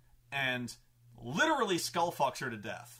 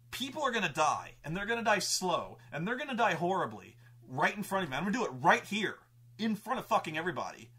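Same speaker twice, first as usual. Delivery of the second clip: mildly acted threat, pitched up; Tempest; 4 semitones higher, 4 dB louder than usual. Villain threatening the crowd, emphatic and higher. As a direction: declaim the villain's ultimatum with force. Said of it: "so Tempest is like".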